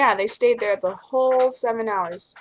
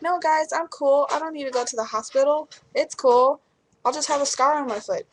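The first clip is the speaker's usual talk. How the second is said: brushing it off; 5 semitones higher than usual. Retold or imitated. Refusing the hospital, brushing off friends.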